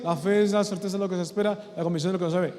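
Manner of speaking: quick, offhand recital of a memorized verse; rote recitation. Shown as a demonstration. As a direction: rattle it off as if by heart. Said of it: "Porque es muy fácil decir".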